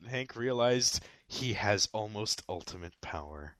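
big trailer-style narration; dramatic narrator. Pretend. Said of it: "done narrating".

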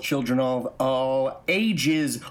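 booming ringmaster welcome, drawn out. Acted. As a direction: announce it like a circus ringmaster. Circus-style podcast opening.

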